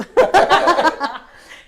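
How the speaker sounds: loud open laugh; hearty laugh. Real, not acted. Laughing out loud at her own joke with the hosts. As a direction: let the laugh burst out.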